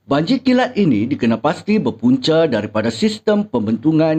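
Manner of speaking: measured newsreader delivery, phrase endings falling; news reading. Shown as a demonstration. Teacher giving pupils a sample news item, plain newsreader style. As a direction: read it out as a simple news bulletin. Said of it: "Cikgu akan bacakan sedikit petikan berita".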